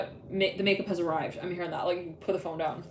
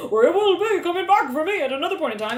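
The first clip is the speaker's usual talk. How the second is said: anxious confession; 9 semitones higher, 7 dB louder than usual. Retold or imitated.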